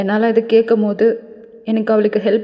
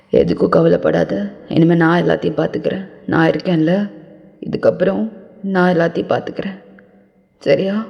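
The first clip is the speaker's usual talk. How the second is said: lower, quick comforting man's voice; reassuring man; 3 semitones lower than usual. Acted. The speaker hugs the crying girl and promises to handle everything, lower and reassuring. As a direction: reassure her fast, voice lower and steady.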